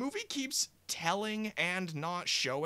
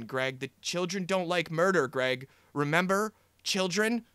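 mock-frantic puppet pleading, rising to a near yell; puppet begging; 7 dB louder than usual. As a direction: beg him harder and harder to put the gun down. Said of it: "starts literally begging him to calm down".

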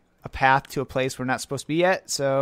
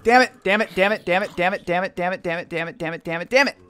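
frustrated cursing; 4 semitones higher, 3 dB louder than usual. Real, not acted. Frustrated gamer about to fail.

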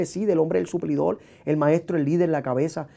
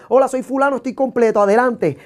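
mock introduction; 4 semitones higher, 3 dB louder than usual. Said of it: "que está completo".

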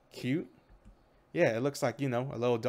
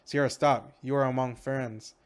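firm command; 4 dB louder than usual. Acted. Captain halts a raging Sierra.

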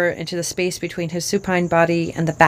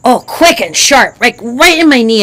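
put-on little girl voice; 5 semitones higher, 8 dB louder than usual. Child describes the pain.

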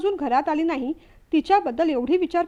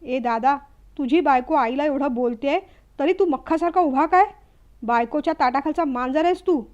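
angry taunt. Acted. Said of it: "प्रसादही भडकला".

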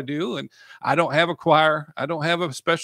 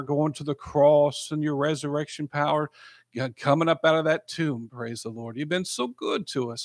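earnest pastor's prayer, rising and falling; a preacher praying aloud for his flock; heartfelt prayer. Real, not acted. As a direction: pray over the listeners, fervent then hushed. Leads a prayer.

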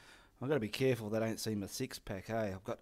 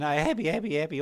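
mock happy; 3 semitones higher, 5 dB louder, faster than usual. Real, not acted. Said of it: "to all happy again".

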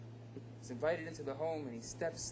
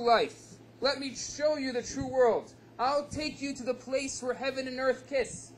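the tempting Arab; 5 semitones higher than usual. Acted. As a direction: lure them away with eager promises. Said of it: "comes along the Arab, and he says".

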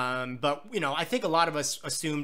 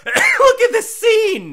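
laughing; 15 dB louder, much slower than usual. Real, not acted. Gushing over the summer rainstorm scene.

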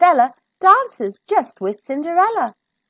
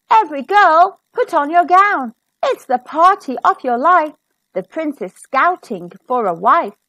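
calling out to the whole town; town crier announcement; 4 semitones higher, 4 dB louder than usual. Acted. Crier announces the ball to every girl, loud proclamation. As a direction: proclaim it like a herald, louder.

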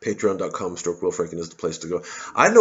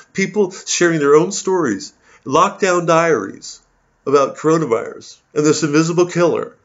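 mocking whiny commenter; 4 semitones higher, 4 dB louder than usual. Comedian mocks a troll's lament in a whiny voice. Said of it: "He's gonna get to me like that".

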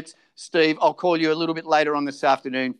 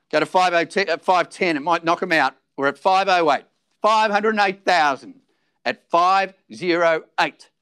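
auctioneer calling. Acted.

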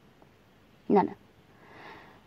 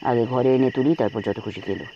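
whispered fury; 9 semitones lower than usual. Acted. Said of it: "শাসন করল অভ্র".

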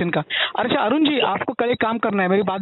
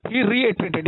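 slow dictation; much slower than usual. Shown as a demonstration. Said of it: "यानी उसने repeat किया".

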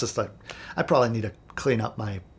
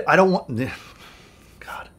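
exasperated whisper; 3 semitones higher than usual. Real, not acted. Exasperated aside mid-story.

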